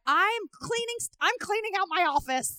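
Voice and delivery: put-on high, laughing old man; lightly voiced old neighbor. Retold old man answer.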